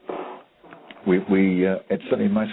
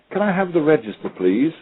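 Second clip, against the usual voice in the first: high-pitched, very posh Harrogate voice; posh Harrogate accent; 7 semitones higher than usual. Retold or imitated. Teacher recording a pupil's Big Mac message, posh Harrogate accent. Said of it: "very posh Harrogate voice".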